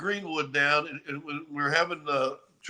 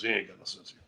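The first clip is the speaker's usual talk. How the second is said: muttered repeat; 10 semitones lower, 7 dB quieter, much faster than usual. Real, not acted. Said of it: "He thinks he does".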